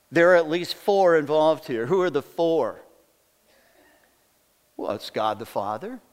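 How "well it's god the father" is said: hushed reverent listing. Acted. Pastor to the church, hushed and reverent. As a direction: drop to a hushed, much softer voice.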